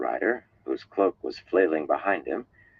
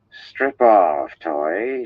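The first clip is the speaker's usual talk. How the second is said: louder, higher order to a servant; commanding tone; 3 semitones higher, 6 dB louder, much slower than usual. A narrator's reading. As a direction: give the order like to a maid. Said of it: "in the same tone she had used with her maid".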